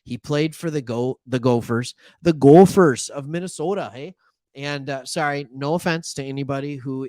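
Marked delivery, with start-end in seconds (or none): 1.3-4.1 a hint of a Minnesota accent on the Gophers. Host naming the Gophers, slipping into a mild Minnesota accent. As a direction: slip into a light Upper Midwest Minnesota accent. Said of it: "The accent came out".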